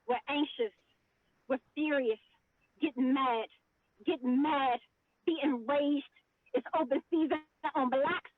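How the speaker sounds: solemn spoken word delivery; spoken word poem. Acted. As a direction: let each line land with weight. Resumes her poem.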